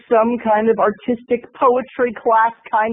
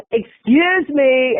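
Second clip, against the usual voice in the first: slow, drawn-out complaint; mock indignant; 3 semitones higher, much slower than usual. Woman in fur coat to the person behind, mock indignant. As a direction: imitate an affronted stranger. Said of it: "Finally, she goes".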